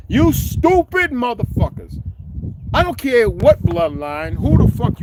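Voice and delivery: high, slow furious yell at the haters; angry yell. Real, not acted. Ranting at fake gang members online, high slow yell.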